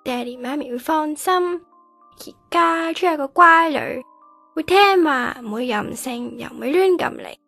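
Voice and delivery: loud, aggrieved declaiming; bitter outburst. Acted. Daughter telling absent family she has been replaced, bitter. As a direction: raise the voice through hurt.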